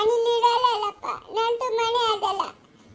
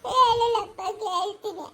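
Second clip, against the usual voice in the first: helpless, tearful wail; weeping as you give in; crying. Acted. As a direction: answer through sobs. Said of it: "ಅವಳು ಅಳೋದಂತೂ ನಿಲ್ಲಿಸ್ತಾ ಇಲ್ಲ".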